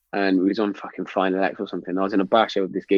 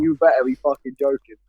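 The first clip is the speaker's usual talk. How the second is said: mock-stern boss, slightly raised; put-on officer's warning, a bit higher; infantry boss impression; 4 semitones higher than usual. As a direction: warn him as the boss. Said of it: "That's a good boss impression".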